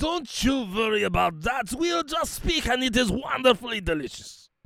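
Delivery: high-pitched, put-on, jumbled mixed European accent. Playing a role, speaking in an accent the listener likens to Lumiere. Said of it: "That sounded very Lumiere".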